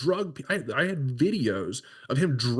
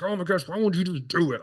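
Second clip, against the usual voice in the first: exasperated; 4 semitones higher than usual. Retold or imitated. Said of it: "and you're like".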